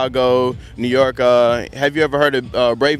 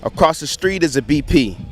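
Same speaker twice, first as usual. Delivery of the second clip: rhythmic slam poetry recital, pitch often raised; spoken word; 2 semitones higher than usual. Shown as a demonstration. Young poet performing environmental slam poetry for an interviewer, spoken word. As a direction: perform it as slam poetry, driving through the lines. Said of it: "Spoken word".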